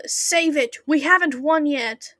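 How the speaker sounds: a light schoolboy bark; high school boy. Acted. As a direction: snap it like a teenage boy. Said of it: "that sounded like a little high school boy".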